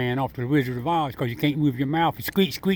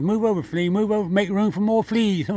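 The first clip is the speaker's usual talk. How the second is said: higher, playful squirrel quote; squirrel's voice; 5 semitones higher than usual. Acted. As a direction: speak up high for the squirrel. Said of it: "He said".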